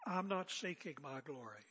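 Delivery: said calmly and evenly, without defensiveness. Retold or imitated. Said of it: "Jesus said very calmly".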